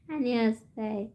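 slow words broken by real laughter; laughing through words. Real, not acted. Streamer laughing as she reads a fan's comment.

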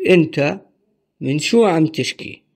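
أنت alone, pause, then من شو عم تشكي; broken into parts. Shown as a demonstration. Teacher breaks the sentence into pieces for learners. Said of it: "Our first sentence is".

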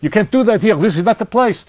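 put-on high-pitched protest in a thick Jewish accent; heavy Jewish accent. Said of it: "in a rather heavy accent".

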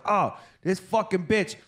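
high, mock screaming rant; imitating screaming guy. Imitating a man on the street corner screaming, high mock rant. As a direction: ham up the crazy fat guy yelling for money.

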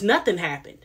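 dismissive. Retold or imitated. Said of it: "Justin says".

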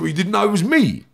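high, indignant challenge; re-enacted angry disbelief; retold screaming match. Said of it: "a bit of a screaming match".

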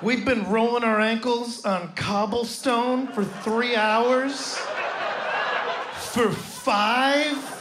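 rising disbelief, laughing, building to a shout; can't believe he paid for five; incredulous outrage. Retold or imitated. Outraged tourist to friend.

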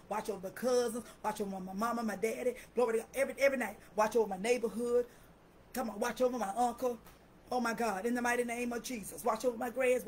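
steady pleading prayer building to commands; intercessory prayer. Real, not acted. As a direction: call down protection on each loved one. Praying over family members.

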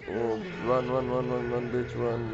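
loud urgent urging to run; being chased. Real, not acted. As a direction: shout run while fleeing. Fleeing enemy in game.

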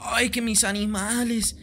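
mock whiny Rubius. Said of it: "va a decir".

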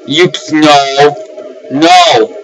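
high, slow, shaken oh my god; spooked gasp of disbelief; freaked out by something in the dark; startled fear. Real, not acted. Scared by a monster.

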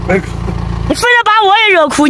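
high-pitched, on the verge of crying; close to tears. Real, not acted. Traveller begs crying friends to stop, nearly crying too. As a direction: plead high, as tears threaten. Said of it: "哭完我也想哭了".

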